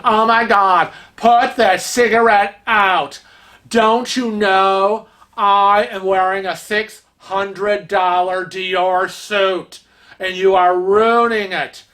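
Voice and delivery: lightly voiced haughty socialite scolding; snooty rich lady. A rich lady scolding a smoking man, snooty. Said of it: "hoity-toity rich bitch, going".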